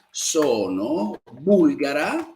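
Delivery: slow, clear model answer with bulgara rising. Shown as a demonstration. Teacher slowly modelling an answer for students. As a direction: spell out Sono bulgara slowly for the class. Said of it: "Qual è la tua nazionalità?".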